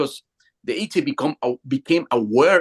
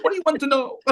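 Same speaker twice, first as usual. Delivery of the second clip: high feisty alien question; 13 semitones higher, faster than usual. Retold or imitated. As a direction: toss the question back like a cheeky alien. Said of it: "Like, very feisty".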